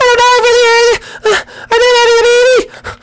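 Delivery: very high wailing cry; high falsetto birth panic; screaming princess in labour. Acted. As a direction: shriek it like she's giving birth. Peach voice crying.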